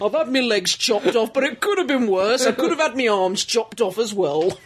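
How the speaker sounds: put-on jokey, rough American accent; attempted American accent. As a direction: read it in a badly faked American accent. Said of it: "That was my impression of an American accent".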